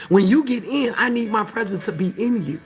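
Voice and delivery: preaching in God's voice; God's insistent rebuke. Acted. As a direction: declare it as the Lord correcting someone.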